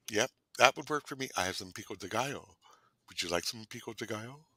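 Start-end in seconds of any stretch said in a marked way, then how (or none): 1.4-4.5 soft, breathy whispered offer of pico de gallo; seductive whisper. Pretend. A host whispering to a date, seductive.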